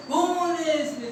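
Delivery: slow, drawn-out echoing call; echo from well. Acted. Lion's voice comes back from the well, echoing. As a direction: stretch the words like an echo. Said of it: "कुएं में से आवाज इको हुई".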